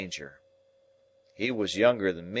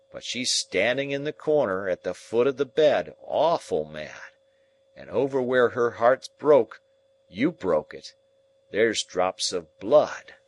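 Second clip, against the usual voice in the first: shaking with horror; 2 semitones higher than usual. Acted. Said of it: "shaking dreadful with the horrors".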